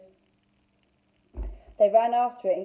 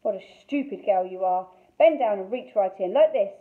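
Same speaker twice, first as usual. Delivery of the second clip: scolding witch; 5 dB louder than usual. Acted.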